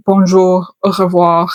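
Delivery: rattled-off tourist French phrases in a light French accent; basic French phrases. Shown as a demonstration. Showing viewers the beginner French she goes beyond, French accent. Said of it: "I only know how to say".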